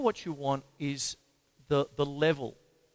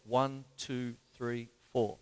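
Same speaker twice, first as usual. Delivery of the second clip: "one, two, three, four" as evenly spaced beats; counting crotchets; 2 semitones lower, much slower than usual. Shown as a demonstration. Teacher showing crotchets to students, evenly spaced count. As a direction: count only the main beats, a gap after each. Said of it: "if you're dealing with a crotchet".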